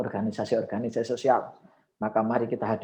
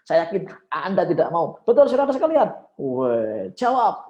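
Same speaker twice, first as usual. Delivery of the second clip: climbing higher and louder to a rousing peak; rising emotion; 9 semitones higher, 6 dB louder than usual. Shown as a demonstration. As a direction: build the emotion up to a rally cry. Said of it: "mulai naik tuh emosi".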